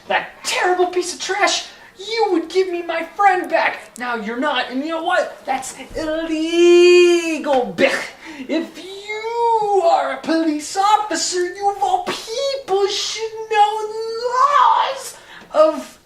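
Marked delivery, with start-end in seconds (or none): 5.4-16.0 laughing singsong. Acted. Laugh-singing indignant lecture.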